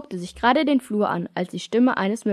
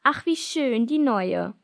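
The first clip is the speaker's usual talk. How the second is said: disdainful; 3 semitones higher, slower than usual. Acted. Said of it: "kommentierte abfällig".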